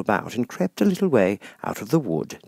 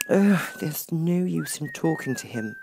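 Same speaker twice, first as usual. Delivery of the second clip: desperate; 8 semitones higher, 3 dB quieter than usual. Acted. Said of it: "said Alice desperately".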